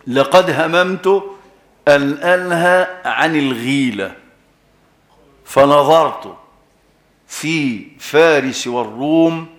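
measured, solemn classical recitation, slow; slow formal reading of a hadith. Acted. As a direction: recite the Prophet's words slowly, word by word.

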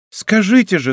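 insisting hotly, voice lifted; heated plea. A narrator's reading. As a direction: demand an answer with fire. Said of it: "с горячностью повторила".

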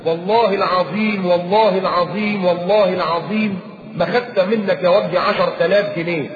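والله العظيم repeated slowly and gravely; slow solemn oath. Shown as a demonstration. Preacher acting out the accused swearing, slowly and solemnly. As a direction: swear it slowly, weighing each word. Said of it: "تعالى قول".

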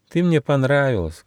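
high, mildly sad mouse voice; sad little mouse. Acted. Mouse Gosha must leave his new friend, mildly sad. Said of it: "грустно сказал Гоша".

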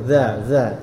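"za" with tongue lightly between the teeth; th-like z on each "za"; dzal sound. Shown as a demonstration. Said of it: "seperti itu". ("za" dengan lidah sedikit di antara gigi)

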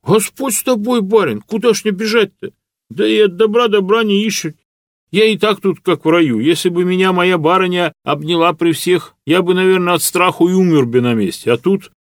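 a shy serf close to tears of joy; humble serf Matvey. A narrator's reading. (робкий крестьянин, высоким голосом от счастья)

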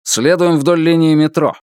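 harsh barking commands. Acted. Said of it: "рявкнул он".

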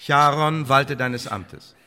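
a judge's slow, loud command; stern command. Acted. Orders guard to seize Marlowe.

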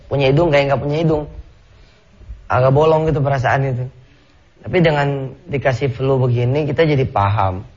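stuffy voice from a head cold; blocked nose. Real, not acted. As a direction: talk through a stuffed-up nose. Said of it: "Suara juga kan agak bindeng nih".

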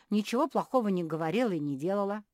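usual speaking voice

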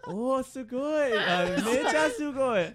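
high, slow, loud gushing; cute anime girl. Acted. Game master voicing the rescued girl, slow high gush. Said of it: "the girl's like".

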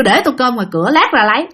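short blunt answer, lifting on the last words; curt, clipped reply. Retold or imitated. Bảy now brushing off his elders, curt and blunt. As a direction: say it bluntly in two abrupt chunks. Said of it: "Còn đằng này nhát gừng luôn".

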